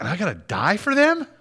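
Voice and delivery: high, incredulous rising question; mock disbelief. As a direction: imitate someone balking in disbelief. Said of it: "knowing he's like".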